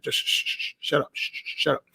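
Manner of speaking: whispered shh, shut up, hushing them. Retold or imitated. Cop hushing teenage girls in a store, whispered. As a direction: hiss them quiet under your breath. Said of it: "I was like".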